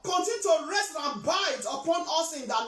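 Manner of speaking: impassioned church declaration; fervent prayer. Real, not acted. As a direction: proclaim the prayer over the congregation. Interprets the prayer aloud.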